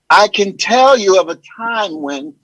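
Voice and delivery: lightly voiced, slow actor impression; Terrence Howard. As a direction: draw it out, savoring your own story. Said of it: "impressions; Terrence Howard".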